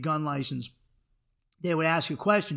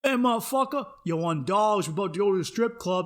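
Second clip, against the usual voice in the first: white guy faking Black speech; 2 semitones higher than usual. Pretend. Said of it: "that's supposed to be a black dude".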